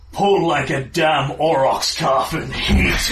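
slow, emphatic warrior's praise; impressed warrior. Acted. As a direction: declare it slowly to a worthy opponent. Warrior praises opponent after match.

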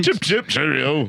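slow, hammed-up posh British cheerio; a bad British toff accent; mock British gent; terrible British accent. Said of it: "our terrible British accents".

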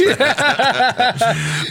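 bright, high burst of laughter. Real, not acted. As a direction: laugh hard at your own punchline. Laughs at a joke about a singer.

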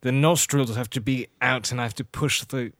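mannered, nasal Jack Sparrow impression; nasal pirate voice. Shown as a demonstration. Host explains the impression while doing it, nasal pirate voice. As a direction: push it through the nose. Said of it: "it's supposed to come from the nose".

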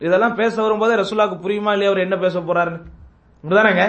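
normal talking voice

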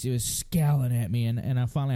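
normal talking voice

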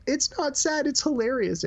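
high-pitched giggly protest; protesting through laughter. Retold or imitated. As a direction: insist it's funny while cracking up. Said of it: "And I'm like".

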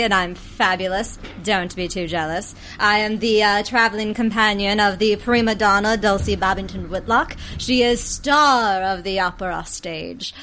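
self-admiring British diva voice; vain British peacock. Acted. Player introducing Portia the peacock, haughty British voice. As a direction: preen grandly in a British accent.

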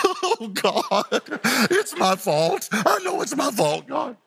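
high, laughing mock wail; hammed-up repentance with a laugh in it; Joseph's broken confession. Preacher voices Joseph finally owning his fault, in a high mock wail. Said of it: "I think he was like".

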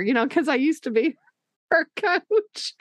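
normal talking voice

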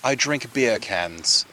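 understated mock Jamaican accent. Shown as a demonstration. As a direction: lightly put on a Jamaican lilt. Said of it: "say in a Jamaican accent".

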